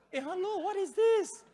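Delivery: high-pitched, soft incredulous query; baffled. Retold or imitated. Caller hearing fake transfer sounds, baffled. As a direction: question the line in mock bafflement.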